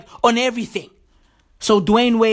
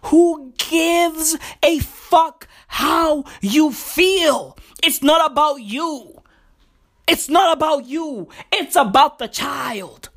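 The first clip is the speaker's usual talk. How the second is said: emphatic, raised-pitch rebuke; fired-up preaching; 4 semitones higher, slower than usual. Real, not acted. Telling parents it's about the child, emphatic preaching. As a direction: preach it, leaning on every word. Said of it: "I'm preaching this week".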